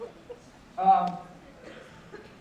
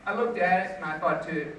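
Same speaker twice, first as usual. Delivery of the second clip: normal talking voice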